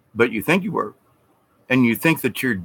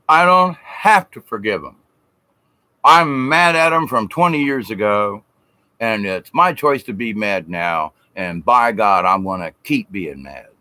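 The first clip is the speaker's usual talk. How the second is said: mock stubborn grudge-holder. Mocking a man who won't forgive, defiant.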